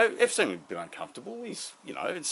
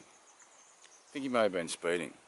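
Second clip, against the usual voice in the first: slow, knowing repeat; 4 semitones lower, slower than usual. Shown as a demonstration. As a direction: drag out the line to sell the joke.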